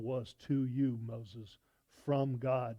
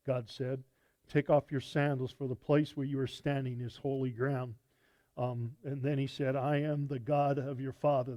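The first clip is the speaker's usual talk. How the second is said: raised, projected reading of the passage; scripture reading. Acted. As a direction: proclaim the verses to the congregation. Reads Exodus passage aloud.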